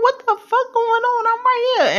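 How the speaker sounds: high, loud startled shout; startled yelling. Retold or imitated. Calling out to rushing doctors, high and loud. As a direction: call out in alarm, unheard by anyone.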